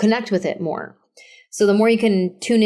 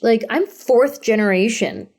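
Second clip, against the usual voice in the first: ordinary delivery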